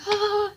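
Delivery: high acted wail; mock pained cry. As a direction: cry out as if being hit. Daughter is being beaten.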